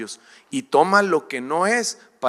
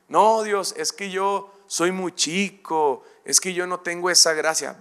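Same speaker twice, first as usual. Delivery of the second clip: higher, pleading excuse-maker; whiny excuse; 3 semitones higher than usual. Acted. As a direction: beg off like a timid believer. Believer makes excuses to God.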